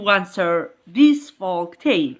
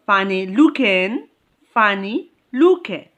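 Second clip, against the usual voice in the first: "funny looking" with the weight on "looking"; stress on second part. Shown as a demonstration. Teacher demonstrating adjective stress, "funny looking" stressed on "looking". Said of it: "it falls on the second part".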